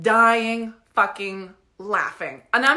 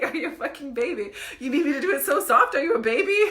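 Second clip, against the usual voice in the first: teasing questions broken up by giggles; laughing retold taunt; 3 semitones higher than usual. Storyteller quoting masseuse who mocked her, laughing. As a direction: quote the taunt while cracking up.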